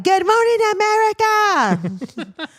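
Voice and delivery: mock morning-show host welcoming the day; cheery announcer. Cheery morning greeting at work.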